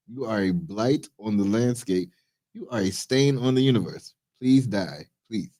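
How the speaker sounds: mildly menacing villain read of the chatbot's message; a light Bond villain reading a cruel chatbot message to a human. Acted. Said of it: "it's in the Bond villain thing".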